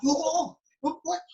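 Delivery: high, startled double take; alarmed whoa. Retold or imitated. Seeing a crowd pointing through the window, high startled yelp.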